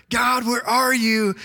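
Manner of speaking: lightly acted cry up to God; mock plea. Preacher voicing Habakkuk calling out to God, mildly pleading.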